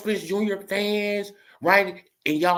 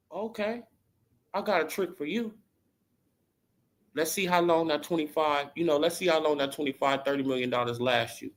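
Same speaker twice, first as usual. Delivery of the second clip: softer, menacing promise; quiet threat; 2 semitones lower, 5 dB quieter than usual. Pretend. Vlogger as Haymon quietly threatening Earl.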